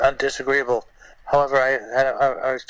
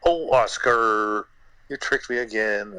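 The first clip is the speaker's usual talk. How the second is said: scripted mild disappointment; slower than usual. Retold or imitated. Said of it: "the script called for him to say".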